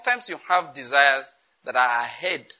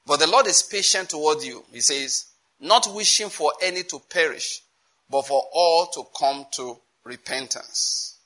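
loud, deliberate Bible reading, slowing at the close; scripture reading; 4 dB louder than usual. Real, not acted. Preacher reading of the Lord's patience, emphatic scripture reading. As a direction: read the verse out with weight.

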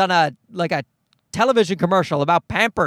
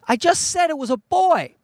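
exasperated correction; 9 semitones higher than usual. Retold or imitated. Exasperated dad correcting stranger.

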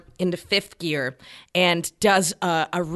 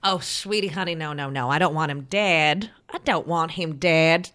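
mock sweet. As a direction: coo it like calming a child. Debbie soothing Snakey.

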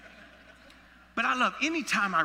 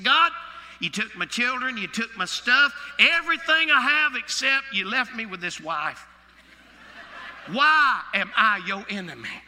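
anguished cry; 3 semitones higher, 7 dB louder than usual. Acted. Job's anguished cry paraphrased.

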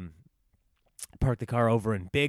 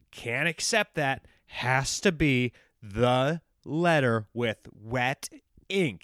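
slow, stiff mock of the tow guy; mock stubborn owner; slower than usual. Mocking the tow guy reading his policy in a stiff drone. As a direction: drag it out like a petty rule-quoter.

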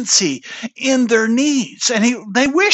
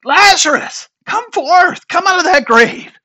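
loud, high-pitched calling out; yelled command; 9 semitones higher, 5 dB louder than usual. Retold or imitated. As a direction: call the dead man out, acting the yell. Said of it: "Jesus goes and yells out".

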